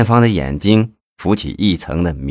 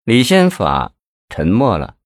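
plain reading voice

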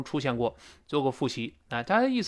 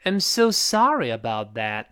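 slow apology, "know" long and falling; sorry husband, stretched key words; apologetic; slower than usual. Shown as a demonstration. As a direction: draw out the apology and slide down. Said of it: "最后声调滑下来".

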